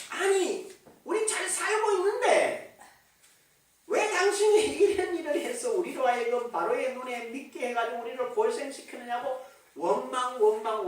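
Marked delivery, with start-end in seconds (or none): 0.1-9.4 retold complaint. Israelites blaming Moses over their hardship, mildly complaining. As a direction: voice a people's grievance, pitch easing down. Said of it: "원망을 합니다".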